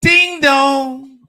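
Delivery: loud, slow furious yell at the door; outraged man yelling at a surprise visitor at his door; angry shout. Retold or imitated. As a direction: bellow it like she just barged in unannounced. Doorbell, angry at her arrival.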